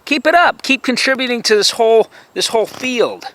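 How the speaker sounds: jeering yell; sarcastic shout. Real, not acted. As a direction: bark the sarcasm at him. Sarcastic taunt.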